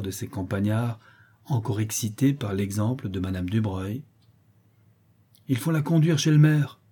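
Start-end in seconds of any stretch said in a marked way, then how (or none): 5.5-6.8 angry peasant. Acted.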